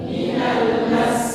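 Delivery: soft whispered "Minal mas"; student repeat. Real, not acted. Student repeating the teacher's model in a whisper. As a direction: breathe it quietly back.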